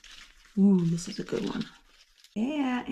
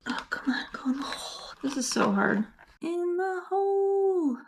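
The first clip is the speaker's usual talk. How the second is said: strained, coaxing a zip tie in; threading a needle; 8 semitones higher than usual. Real, not acted. Forcing a zip tie through.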